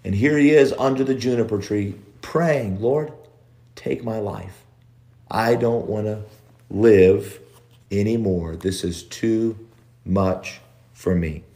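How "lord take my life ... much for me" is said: quiet hopeless prayer, trailing off; weary despairing prayer. Retold or imitated. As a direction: let the voice sink as if you have given up. Elijah's despairing prayer under tree.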